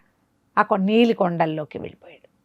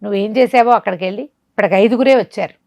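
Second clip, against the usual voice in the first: sorcerer ordering; 3 semitones higher, 3 dB louder than usual. Acted. Sorcerer scolds and plans sacrifice.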